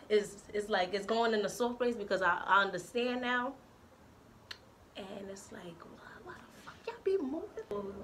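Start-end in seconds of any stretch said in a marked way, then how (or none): 5.0-7.9 whisper. Real, not acted. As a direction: hiss it in a whisper. Whispered aside after heartfelt speech.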